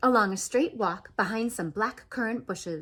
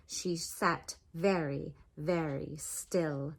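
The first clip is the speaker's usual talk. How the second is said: very slow, much softer and lower; drawn out and hushed, like the still cat; 7 semitones lower, 8 dB quieter, much slower than usual. A narrator's reading.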